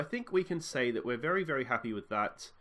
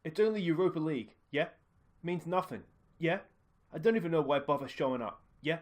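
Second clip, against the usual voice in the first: dismissive fan; 3 semitones higher than usual. Acted. Another fan shrugs it off.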